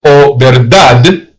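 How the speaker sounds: verdad said slow, Spanish style. Shown as a demonstration. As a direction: say verdad slowly, rolling the r. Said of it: "the word verdad".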